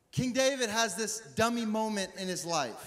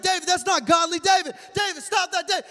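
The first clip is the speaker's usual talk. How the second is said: offended wife, rising into higher-pitched scolding; mad, scolding wife; 6 semitones higher, 3 dB louder than usual. Acted. Preacher voicing David's wife at the window, scolding indignantly. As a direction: rattle off indignant disbelief, climbing as it builds. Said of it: "She gets mad".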